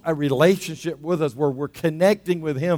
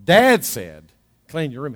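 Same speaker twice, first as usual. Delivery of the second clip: borrowed authority; 4 semitones lower than usual. Acted. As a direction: deliver dad's order as if it carries weight. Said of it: "a little more weight to it".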